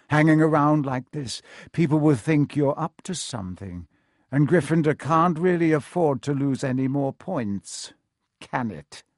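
smooth, veiled warning; understated menace; teacher toying with pupils; lightly voiced Snape. Snape warns the children.

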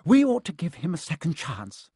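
jolly booming friar. A narrator's reading. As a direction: plead gently for mercy. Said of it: "a fat little monk was saying".

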